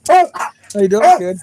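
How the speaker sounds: high, loud, slow pet greeting. Real, not acted. Greeting the excited dog in high baby talk.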